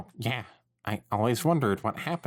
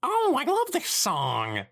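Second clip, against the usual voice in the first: overexcited exclaim; slower than usual. Acted. Drowning out awkward talk.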